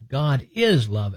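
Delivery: slow, deliberate "God is love"; emphatic statement. Real, not acted. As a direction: say "God is love" slowly, each word weighted. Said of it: "figure of speech there for emphasis".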